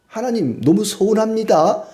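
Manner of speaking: high, plaintive appeal to God; hurt complaint. Acted. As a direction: sound wounded and let down. (높고 서운한 하소연)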